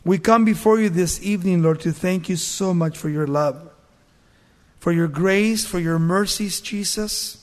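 earnest, hushed pastoral prayer; preacher praying for the families; closing prayer. Acted. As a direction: pray sincerely over the congregation.

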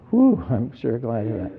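mock relieved exhale on "Whew"; playfully acted relief; sigh of relief. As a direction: let out a big "Whew", then settle. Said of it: "breathe a big sigh of relief".

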